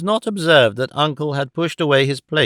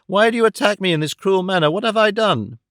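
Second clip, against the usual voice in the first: fast, higher, a touch of tearful hurt; hurt young woman near tears, lightly voiced; mild frightened bewilderment; tearful protest; 4 semitones higher than usual. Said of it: "affrighted and bursting into tears".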